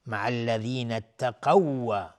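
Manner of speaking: slow recitation, the closing waw of اتقوا doubled and held; merged double waw. Shown as a demonstration. Teacher drawing attention to the merge, waw of اتقوا held doubled. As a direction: lean firmly into a lengthened w ending اتقوا. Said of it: "ادغام".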